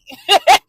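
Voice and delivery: sudden loud laugh; loud burst of laughter. Real, not acted. Laughs at her own point.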